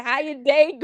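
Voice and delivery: high, laughing mock of the call; mocking through laughter. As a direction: rattle it off fast while laughing. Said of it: "Ain't fucking said".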